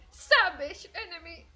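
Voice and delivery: a hint of an arena announcer, stretched "Savage enemy"; imitating the game announcer. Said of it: "no lo dice con esta voz de retrasada que tengo".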